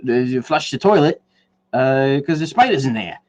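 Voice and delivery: put-on amateur go at an Australian accent; badly faked Aussie warning about the toilet. Podcaster mimicking Australian toilet videos, badly attempted Australian accent. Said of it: "I can't do an Australian accent, but I'm gonna, I'm gonna try anyway".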